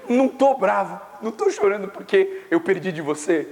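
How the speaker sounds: high-pitched retold whimper; mock tearful. Loser answering his consoling cousin, mock tearful. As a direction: protest in a hammed-up tearful voice. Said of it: "Então por que você tá chorando".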